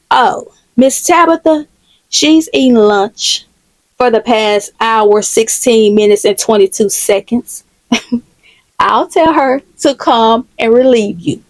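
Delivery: slow, precise, lightly theatrical delivery; lightly voiced prim tattletale, counting every second; sing-songy receptionist. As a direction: measure out each phrase slowly and pointedly.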